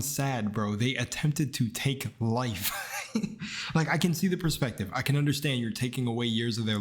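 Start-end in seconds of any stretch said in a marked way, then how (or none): 2.8-3.7 short, soft voiceless laugh; disbelieving laugh. Real, not acted. Disbelieving laugh after protesting.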